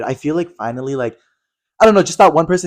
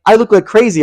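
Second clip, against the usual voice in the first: higher, louder imitation of a refusal; mock indignation; 8 semitones higher, 5 dB louder than usual. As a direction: act out a diva's outrage. Retells celebrity's indignant refusal.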